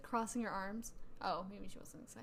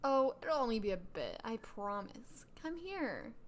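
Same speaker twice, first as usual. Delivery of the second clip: sneering fake sweet; slower than usual. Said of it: "my Mean Girl voice".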